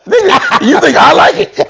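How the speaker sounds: high-pitched incredulous protest, half laughing; indignant retort. Real, not acted. Storyteller to co-host who dislikes his mama stories, indignant retort. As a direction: fire it back in laughing disbelief.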